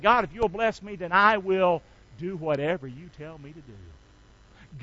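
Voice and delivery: humble prayer, easing down softly at the end; surrendered prayer. Acted. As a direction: yield to God as the prayer goes on. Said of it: "we need to do it the Jabez way".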